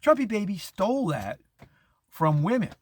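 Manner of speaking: imitating the woman. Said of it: "She goes".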